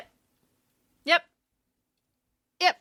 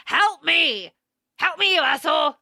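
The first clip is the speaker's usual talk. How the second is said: half-hearted retold shout; mock cry for help; 3 semitones higher than usual. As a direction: imitate her calling out for rescue. Acted cry for help while falling.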